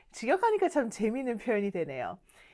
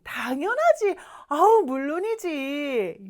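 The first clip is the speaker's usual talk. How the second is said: breezy, drawn-out reassurance; easygoing, lightly acted reply; casual "of course"; 2 semitones higher, slower than usual. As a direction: wave off the thanks, stretching the end. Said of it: "요런 느낌이에요".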